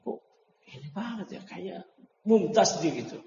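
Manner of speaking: mock-surprised reaction; imitated surprise. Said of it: "teman-temannya seangkatan dia tuh kaget".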